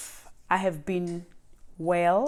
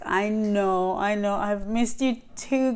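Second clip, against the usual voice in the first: ordinary delivery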